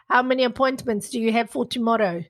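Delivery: lightly imitated South African accent. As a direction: mimic a South African sales manager. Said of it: "She was South African".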